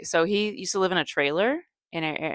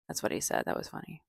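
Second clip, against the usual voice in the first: breathy laugh-talk; 9 semitones lower, 10 dB quieter than usual. Real, not acted. Whispered after laughing.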